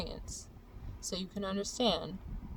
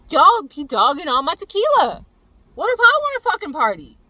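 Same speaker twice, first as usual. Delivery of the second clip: loud, higher angry outburst; aggro yell; 6 semitones higher, 13 dB louder than usual. Real, not acted. Complaining to viewers about her tequila, angry yell. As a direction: let the rage burst out again. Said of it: "this very aggro gremlin".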